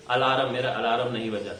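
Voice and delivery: अलार्म with a heavy r, imitated; mock the common mistake; imitating wrong alarm. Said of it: "बहुत सारे लोगों को बोलते हुए सुनते होंगे". (लोगों की नकल वाला अलार्म)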